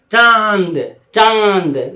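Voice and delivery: चांद with the nasal vowel held long; nasal vibration demo. Shown as a demonstration. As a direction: draw out चांद through the nose. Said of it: "नाक में vibration होगा". (चांद को नाक से खींचकर)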